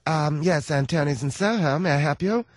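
put-on voice of a London maître d'; London restaurant host. London restaurant taking a booking call, put-on host voice.

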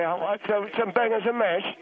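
hammed-up Cockney singer asking for food; impression of a singer. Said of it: "I'm gonna do an impression".

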